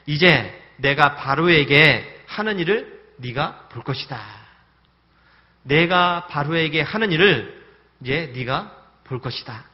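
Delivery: slow, loud solemn voice of God; God assuring Moses, drawn out and weighty; God's promise. Retold or imitated. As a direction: spell each word out like a vow.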